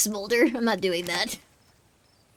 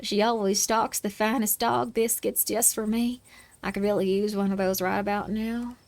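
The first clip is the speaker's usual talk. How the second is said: lightly voiced dog craving treats; dog character. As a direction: savor the thought of biscuits as the dog. Dog speaks about biscuits.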